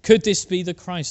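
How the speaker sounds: the Samaritan woman calling out in wonder; woman's excited report. Retold or imitated. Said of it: "the woman's response".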